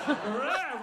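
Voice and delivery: imitated crazed long cry; mock manic yell. Storyteller imitating Morgan running with the hammer, manic. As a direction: blare a wild wordless noise. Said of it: "this is supposedly his laugh".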